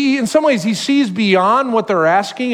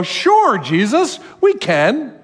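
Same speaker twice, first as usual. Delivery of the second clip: eager disciples; 5 semitones higher, slower than usual. Retold or imitated. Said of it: "And they go".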